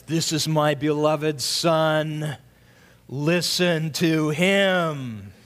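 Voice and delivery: lightly voiced God speaking from the cloud, slow. Preacher voicing God to the congregation, low and slow. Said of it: "and God says".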